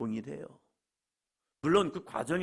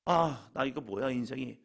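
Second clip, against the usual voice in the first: mild acted despondency; 4 semitones lower than usual. Believer questioning their life in hardship, mildly despondent. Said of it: "하면서 좌절하는 것이 아니라".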